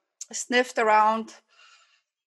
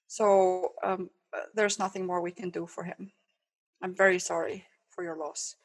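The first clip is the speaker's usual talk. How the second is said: softer, sorry bad news; hushed sympathy; 2 semitones lower, 6 dB quieter than usual. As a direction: condole quietly and gently. Vet third verdict.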